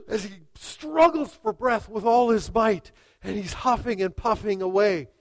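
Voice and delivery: loud, dramatic telling of a struggle; urgent story narration. A narrator's reading. Preacher describing the student fighting for breath, urgent narration. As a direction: keep the intensity up, easing at the end.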